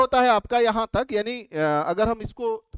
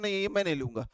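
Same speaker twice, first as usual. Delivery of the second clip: refusing customer; 4 semitones lower, 7 dB quieter, faster than usual. Retold or imitated. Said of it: "फिर कहते हो".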